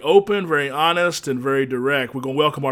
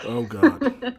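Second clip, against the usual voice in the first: sudden high-pitched "oh God" in disbelief; shocked gasp of a reaction, pitched way up; surprised; 11 semitones higher than usual. Real, not acted. Host reacts to pig food.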